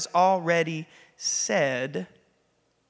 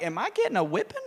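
nervous worry; 4 semitones higher, 4 dB quieter, faster than usual. Retold or imitated. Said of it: "I'm like".

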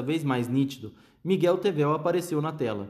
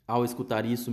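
ordinary delivery, nothing marked

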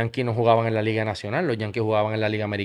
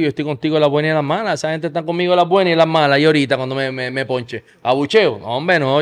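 quick, raised, indignant protest; annoyed; 3 semitones higher, 5 dB louder than usual. Retold or imitated. Player refusing Julio's curtain call, annoyed. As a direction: argue it heatedly in a rush. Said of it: "Le dije así, molesto".

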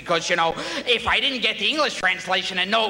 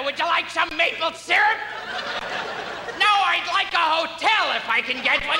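lightly raised, grating stand-up whine; a hint of a squawking comedian; Gilbert Gottfried impression. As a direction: rant about Canada like a cranky comic. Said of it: "every time Gilbert Gottfried's performs".

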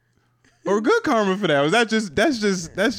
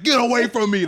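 mild mock yell, higher-pitched; half-strength, raised-pitch demo shout; demonstrated yell; 6 semitones higher, 3 dB louder than usual. Shown as a demonstration. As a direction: show what yelling would sound like. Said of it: "like, then I'm yelling".

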